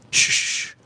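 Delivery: unvoiced breathy shush. Streamer shushes chat during a pretend secret, unvoiced shush. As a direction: hush everyone like it's a secret. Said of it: "Nobody's hearing us".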